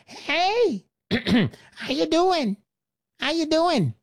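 government's voice. Retold or imitated. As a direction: sidle up friendly to grab a share. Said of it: "That's what the government says".

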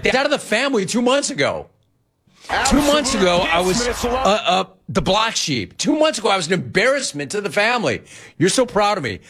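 mock their sudden change of heart; incredulous mock rant. Mocking family's turnaround.

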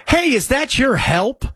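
slow, drawn-out mocking question; lightly imitating a clueless neighbour; mock bigot quote. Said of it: "Because that's what everybody does".

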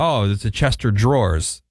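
CHESTER DRAWERS slurred into one name-like phrase; mispronunciation. Retold or imitated. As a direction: quote people saying "Chester drawers". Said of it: "But people say".

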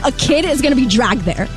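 usual speaking voice

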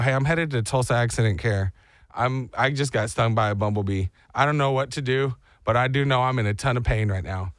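low, level, stoic phone call; acting tough. Hurt husband calls his wife about accident care, tough. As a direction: keep it low and controlled despite the pain. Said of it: "I was very tough".

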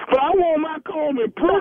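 fake crying. Prankster fakes tears to the barber over a comb. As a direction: whimper the demand like a hurt child. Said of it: "Stop crying".

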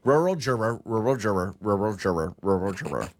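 strained, choking on the words; words tangling as if choking; choking sound. Real, not acted. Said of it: "Sounds like you're choking".

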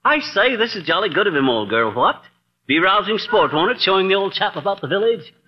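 a light, hammed-up upper-class British accent; mock British accent. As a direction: put on a mild toff British accent to impress. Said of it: "Some of the English has come off on you".

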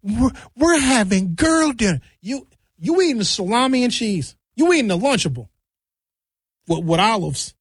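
high mocking girly voice; mock girl voice. Mocking women serving a charcuterie board, high mock voice. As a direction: ham up the girl dinner crowd.

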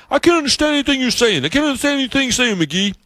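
high, fast mock complaint; New England coworkers. Coworkers teasing McGee about his accent, high mock voice. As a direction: tease him as the baffled Yankees. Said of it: "these New Englanders I work with".

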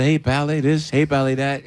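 breezy crooner pal talk; lightly voiced famous crooner; impression of a famous crooner. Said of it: "I did a".

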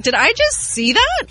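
high-pitched mock disbelief; retold confusion. Host recalling a Vegas sidewalk sight, high confused disbelief. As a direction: squeak it up in baffled surprise. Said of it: "I was so confused".

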